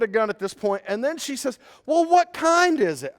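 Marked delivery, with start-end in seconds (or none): 1.8-3.1 high, loud curious shout; wife calling back. Retold or imitated. Wife on the deck asking husband about the snake, high shout. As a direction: ask it across the yard, unhurried.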